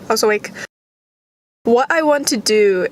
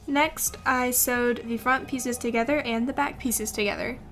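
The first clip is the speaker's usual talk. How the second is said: soft, even tutorial voiceover; calm how-to narration over music; 10 dB quieter than usual. Acted.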